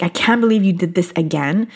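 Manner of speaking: a hint of a scolding inner critic; mildly accusing, half-quoted; harsh self-talk. Coach showing listeners the self-talk to drop, lightly scolding. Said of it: "Instead of saying".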